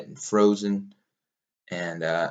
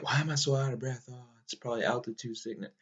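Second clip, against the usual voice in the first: soft, slightly raised inner voice; wondering self-talk; 3 semitones higher, 9 dB quieter than usual. Retold or imitated. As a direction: quietly puzzle it out to yourself. Retold worried wondering to himself.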